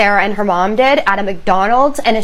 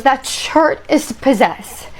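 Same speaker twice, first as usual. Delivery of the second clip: acted fear, high and slow; petrified whimpering; 4 semitones higher, slower than usual. Petrified husband telling his wife about the shirt, whimpering. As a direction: whimper it haltingly like a terrified child. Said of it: "absolutely petrified and whimpering like a child".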